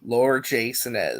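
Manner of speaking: "Lord J Sinez" said slowly, syllable by syllable; careful name pronunciation. Shown as a demonstration. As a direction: sound out "Lord J Sinez" with care. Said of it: "say your name correctly".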